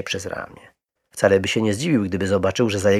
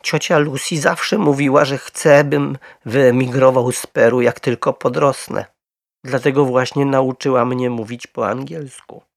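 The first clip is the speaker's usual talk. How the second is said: higher, emphatic bear voice; earnest little bear; 5 semitones higher, 5 dB louder than usual. A narrator's reading. Little bear explaining Aunt Lucy's plans, earnest. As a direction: explain proudly in a raised voice.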